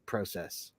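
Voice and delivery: soft, low "process" with long OH; Canadian pronunciation. Retold or imitated. Liking the teacher's way, soft PROH-sess for "process". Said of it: "I loved how he said it".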